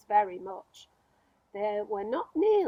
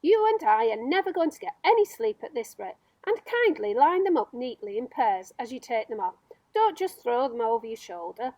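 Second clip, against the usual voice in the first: nagging centipede; 5 dB louder than usual. Acted. Centipede nagging James to hurry with the boots, loud and fussy. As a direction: scold him like a cranky old master.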